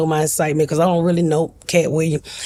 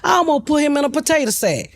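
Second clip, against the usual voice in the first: half-laughed, pitched up high; laughing through words; 8 semitones higher than usual. Real, not acted. Joking to the interviewer about her father, laughing as she speaks. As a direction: let the laugh spill into the line.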